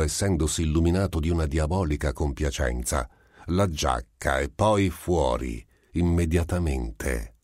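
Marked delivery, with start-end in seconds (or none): 3.5-7.4 ordering. Acted. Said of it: "ordinò il Melito".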